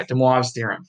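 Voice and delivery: American accent, imitating a librarian; imitated American librarian. Shown as a demonstration. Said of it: "I can imitate this American librarian guy".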